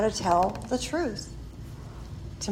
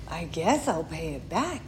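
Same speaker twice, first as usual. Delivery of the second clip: soft, low, reluctant mumble; small voice, reluctantly conceding; sheepish reply; 5 semitones lower, 8 dB quieter than usual. Retold or imitated. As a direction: act out giving in meekly. Sheepish answer to husband acted out.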